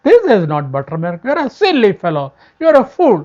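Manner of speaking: a king's loud, scornful scolding; the king tells Tiruvazhuthan off for the crane. Acted. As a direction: tell the fool off.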